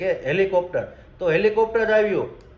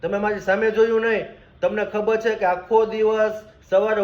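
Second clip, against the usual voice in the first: angry reproach; 2 semitones higher than usual. Acted. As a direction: let the grievance build until it bursts out. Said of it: "ભગવાન ઉપર ગુસ્સો કાઢવા માંડ્યો".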